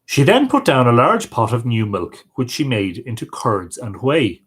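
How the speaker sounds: expressive storyteller with rising and falling pitch; folk tale narration. Acted. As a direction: read an old tale aloud, lively dialogue included. Reads a folk tale aloud.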